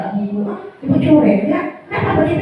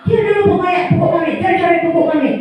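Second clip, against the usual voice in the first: put-on higher, fast, a child's heated complaint; a touch of a shouting pupil; raised child voice; 5 semitones higher than usual. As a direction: rush to accuse the other kid. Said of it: "tinggi suara kita, tinggi lagi suara dia".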